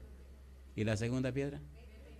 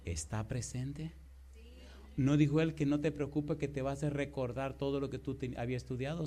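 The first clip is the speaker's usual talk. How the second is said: ordinary talk, nothing marked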